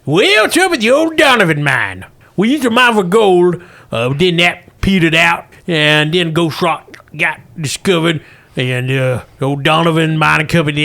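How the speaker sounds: rambling old miner, lightly voiced; a hint of a folksy old miner; old prospector. GM plays miner Russell.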